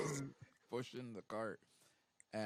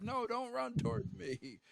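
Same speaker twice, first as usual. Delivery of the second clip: high, loud, slow protest; exasperated shout; 6 dB louder, slower than usual. Retold or imitated. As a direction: yell it in frustration. Buzz protesting cadets running to him.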